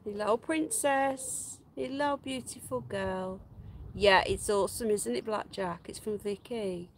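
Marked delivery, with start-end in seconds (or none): 0.0-3.4 slow, soft, high tender greeting; soft cooing. Real, not acted. Owner softly crooning a greeting to her rabbit. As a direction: croon gently to the bunny.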